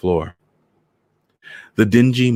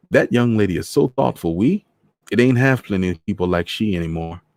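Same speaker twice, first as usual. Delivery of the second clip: retake the line in a Trini lilt; Trinidad accent; 3 semitones higher than usual. Acted. Voices Mister Morris.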